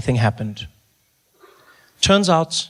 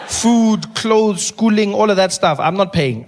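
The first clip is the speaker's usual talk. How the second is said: 1 mock outrage; 6 semitones higher, slower than usual. Real, not acted. Listing parents' costs, mocking.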